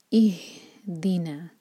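इहदीना very slow, whispered; recited slowly. Shown as a demonstration. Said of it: "ये भी है अल-फातिहा से". (इहदीना धीमी आवाज़ में)

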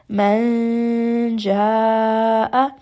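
Man ja'a with the noon hidden, nasal, sliding into the j. Shown as a demonstration. Teacher demonstrating ikhfa on the noon. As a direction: hide the n inside the next letter. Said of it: "I am going to hide that noon sakin".

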